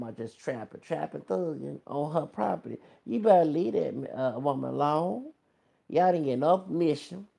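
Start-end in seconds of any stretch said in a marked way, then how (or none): 3.1-7.3 scolding. Real, not acted. Scolding the rappers.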